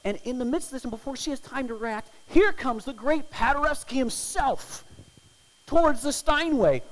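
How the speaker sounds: high and loud; thrilled climax. A narrator's reading. Preacher telling how the great Paderewski appears, high and loud. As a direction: announce it like a grand entrance. Great pianist walks on stage.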